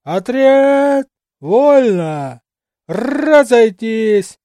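loud, drawn-out stretched drill command; booming command. Acted. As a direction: boom it across the parade ground. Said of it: "зычной команды".

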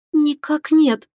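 ordinary delivery, nothing marked

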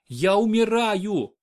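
slow, high, sobbing lament; a mild sob from a frightened mother in labour; sobbed out. A narrator's reading. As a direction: wail it slowly through tears. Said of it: "всхлипнула Мария".

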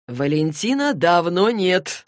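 slow, firm cut-off; curt dismissal. Acted. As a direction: shut the claim down, drawn out. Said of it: "отрезал Джейс". (отрезать, твёрдо и медленно)

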